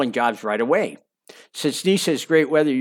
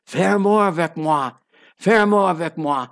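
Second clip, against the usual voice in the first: put-on lilting French accent, pitched higher; sing-songy French voice; 4 semitones higher, 3 dB louder than usual. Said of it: "in her beautiful sing-songy French voice".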